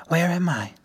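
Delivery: put-on high, pitiful child ghost; a lost little spectre, pleading; pathetic voice. A narrator's reading. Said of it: "in a pathetic voice".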